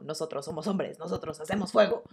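deep, quiet grunt of a caveman; a light caveman growl. Retold or imitated. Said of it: "Joey entra hablando como hombre de las cavernas". (voz de cavernícola)

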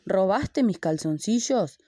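a big elephant roar of an accusation; accusing friends in a children's story, bellowing. Acted. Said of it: "bramó el elefante".

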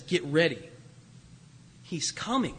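hushed. Acted. Quiet echo of the voice's cry.

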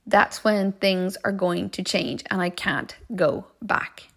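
slow, deliberate, word by word; slow right down to seal the point; grave finality. Retold or imitated. Inner voice warning the traveller of change, slow finality.

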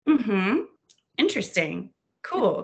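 mock-polite murmurs with lifted pitch; feigned interest. Bluffing through book club without having read it, feigned interest. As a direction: nod along as if you followed every word.

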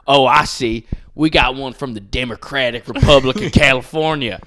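loud, mocking announcer voice; imitated announcer making a jeering joke. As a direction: announce it like a heckling emcee. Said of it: "like, an announcer".

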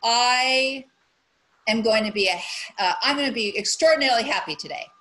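mock affirmation. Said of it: "maybe it's like".

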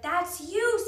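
high, loud urgent call; urgent prompting. A narrator's reading. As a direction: push them to move. Annie urges them toward lifeboat.

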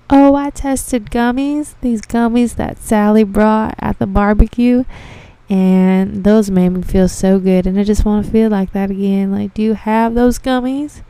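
mildly hammed-up customer spiel; gushing customer. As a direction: tell it wistfully, stretching the words. Acts out a customer's gushing story.

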